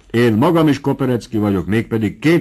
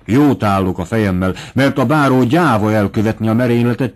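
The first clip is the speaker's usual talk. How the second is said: louder, pushy servant pressing his advice; eager Bubenyik; 4 dB louder than usual. Acted. Bubenyik urges the captain's wife to offer a pearl, louder and eager. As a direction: sell the secret with gusto, a bit louder.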